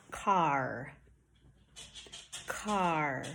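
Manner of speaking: car with a tight, drawn-out R at the end; "Car" slow and low, R fully sounded; clear final R. Shown as a demonstration. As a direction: hold a firm R at the end of "Car". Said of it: "had my tongue tight".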